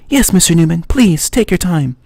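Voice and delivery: high, breathy-free Eastern European woman's voice; a caller with an Eastern European accent asks his name. Acted. Caller from LH Simulations asks for Mister Newman, Eastern European accent. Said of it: "very sexy female voice in an Eastern European accent".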